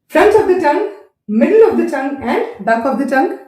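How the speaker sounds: each part drawn out; name the parts slowly; slow listing. Shown as a demonstration.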